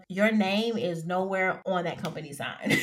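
laughing. Real, not acted. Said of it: "I think I'm having too much fun".

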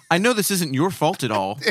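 hammed-up sweet-but-stern customer call; a hint of a stern caller; mock stern politeness. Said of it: "you had a stern voice".

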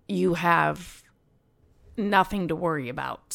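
real lump in the throat, halting with pauses; choked up. Real, not acted. Patient repeating the doctor's good news, getting choked up. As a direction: hold back tears, pausing mid-sentence. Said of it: "get choked up when I'm talking about this".

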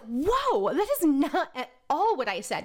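high, startled protest; shocked disbelief. Retold or imitated. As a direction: recoil in disbelief. Shocked reaction quote.

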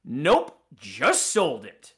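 loud smug "Nope", then a slow "just sold it"; gleeful. Retold or imitated. Retelling a clerk who turns away a caller wanting the bike, gleeful and smug. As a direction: gloat as you turn the customer away. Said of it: "with glee in the tone of his voice".

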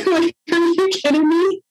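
high laughing disbelief; amused incredulity. Real, not acted. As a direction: laugh it off in mock outrage.

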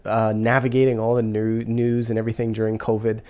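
blocked nose from a cold; talking through a head cold; stuffy nose. Real, not acted. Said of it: "I know I sound a little stuffy here".

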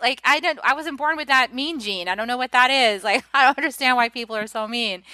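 high, a hint of a baffled child; bewildered innocent. Mimicking a bewildered second-wave person, high baffled pleading. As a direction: plead why in naive disbelief. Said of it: "you're like".

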